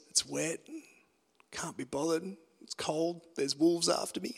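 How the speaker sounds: soft, lazy whining of excuses; grumbling excuse voice. Shown as a demonstration. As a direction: moan it like you can't be bothered. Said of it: "The other voice".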